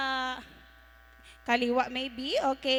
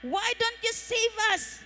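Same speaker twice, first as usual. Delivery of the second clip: raised, higher-pitched taunting demand; acted yell; 5 semitones higher than usual. Thief A yelling at Jesus to save them, acted yell. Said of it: "He yelled at Jesus saying".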